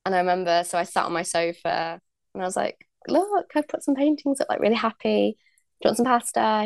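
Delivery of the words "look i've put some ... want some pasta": put-on high, bright welcome to her boyfriend; proudly showing off the new flat; happy showing off.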